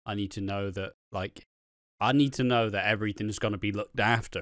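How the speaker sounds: acted earnest plea. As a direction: quietly confide a heartfelt worry. Acting Alfie's earnest confession to Phil.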